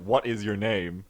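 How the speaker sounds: slow mock-solemn question; imitating Bao Shang. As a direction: parody his flat question slowly. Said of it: "Leaf just says that".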